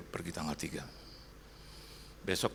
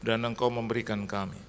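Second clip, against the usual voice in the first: earnest, projected pastor's prayer; congregational prayer; 3 semitones higher, 4 dB louder than usual. Real, not acted. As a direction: lead the congregation in prayer, measured phrases with pauses. Leads closing prayer.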